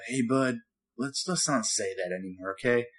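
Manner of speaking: quietly retold fatherly nudge; gentle dad correction. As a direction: ease into a mild, hesitant reproof. Dad gently corrects his son.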